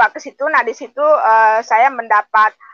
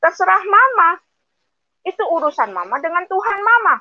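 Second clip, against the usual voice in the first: husband's words; 8 semitones higher than usual. Retold or imitated. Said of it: "suami saya ngomong begini".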